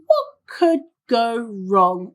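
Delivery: very slow, drawn-out self-questioning; mock-thoughtful, word by word; mock pondering. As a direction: spread the words out as if pondering. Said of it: "they ask themselves that question".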